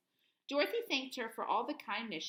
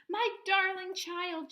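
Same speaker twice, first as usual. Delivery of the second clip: slow, higher and louder cry of joy; joyful cry; 9 semitones higher, 6 dB louder, slower than usual. A narrator's reading. Aunt Em greeting Dorothy, slow joyful cry. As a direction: call out to her, overjoyed. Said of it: "she cried".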